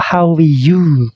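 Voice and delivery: casual, linked fast form; sped-up version. Shown as a demonstration. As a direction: blend how are you into one quick breath. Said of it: "kalau dicepetkan gitu ya".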